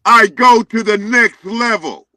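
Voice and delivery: loud, boastful shout; loud yelling. Real, not acted. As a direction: yell it to the next level. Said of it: "Why, why are you yelling?".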